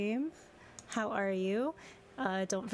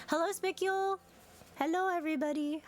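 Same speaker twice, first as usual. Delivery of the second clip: excited; 8 semitones higher than usual. Real, not acted. Greets chatters.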